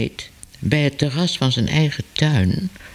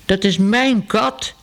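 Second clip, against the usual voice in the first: lightly voiced baker, raised and slow; a hint of the baker crying out over his cat; baker calling out; 6 semitones higher than usual. A narrator's reading. Baker calls out in the hall, slow and raised. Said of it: "riep de bakker".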